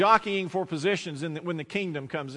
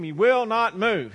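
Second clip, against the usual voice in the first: slow, louder, each word of WILL NOT MOVE weighted; higher, exasperated insistence; 4 semitones higher, 5 dB louder, slower than usual. Acted. Man complaining of his stubborn donkey, exasperated. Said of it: "the man is exasperated".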